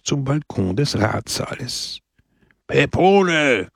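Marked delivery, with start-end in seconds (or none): 2.7-3.7 high, urgent call; shouted name. A narrator's reading. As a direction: yell the name into his ear. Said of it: "schrieb ihm Brusco ins Ohr".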